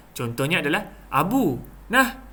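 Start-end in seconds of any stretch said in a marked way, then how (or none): 1.1-2.2 high-pitched, inviting offer; demonstrated "here, take it"; offering something. Shown as a demonstration. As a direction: call someone and hand it over. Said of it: "intonasi dia adalah kita nak memberikan sesuatu".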